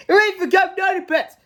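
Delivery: lunge with a gleeful roar; monster lunges. Acted. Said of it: "When suddenly".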